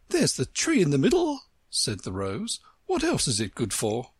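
condescending and proper; prim flower voice. Acted. Rose voiced.

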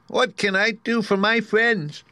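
high, slow squeaky mouse queen; squeaky little voice. A narrator's reading. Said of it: "in her squeaky little voice".

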